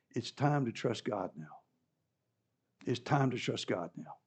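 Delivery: soft and low, gently urging; tender reassurance. Acted. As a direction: comfort a grieving mother. Jesus voiced tenderly, repeated.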